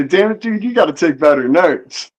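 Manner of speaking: scolding yourself. Retold or imitated. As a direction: nag yourself over the notes. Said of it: "you bitch at yourself and say".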